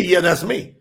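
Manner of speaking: low, offhand "I am, yeah that's me"; preacher mocking the weak translation, a shrug of a yes; casual agreement. Shrugging, everyday admission. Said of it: "As if to agree".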